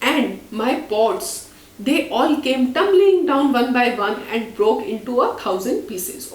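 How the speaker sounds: slow read-aloud; story narration. A narrator's reading. Teacher reading a story slowly to her class.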